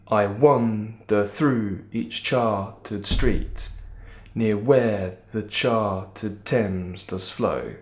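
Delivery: slow, measured ballad verse with four steady beats a line; sing-song recitation. Shown as a demonstration. Teacher showing why the poem is balladic, slow sing-song. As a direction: recite it slowly, leaning on the beat. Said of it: "it's got a really sing-song quality to it".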